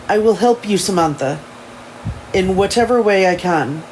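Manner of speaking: lightly attempted English accent. Elijah promising to help Samantha, amateur English accent. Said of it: "my shitty English accent".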